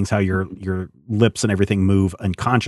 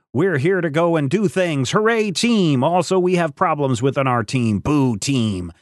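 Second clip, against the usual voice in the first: higher, bouncy cheerleader voice; mock hype; 4 semitones higher than usual. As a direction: sell it like a cheesy trailer. Parodying a generic team comic plot.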